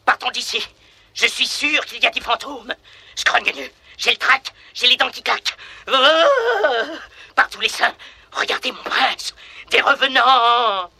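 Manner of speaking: high, trembling comic fright; scared servant. Acted. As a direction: quake with cartoon terror. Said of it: "Augustin tout tremblant".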